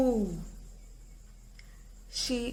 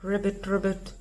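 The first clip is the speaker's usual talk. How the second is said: frog croak; 3 semitones lower than usual. Acted. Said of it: "came the reply".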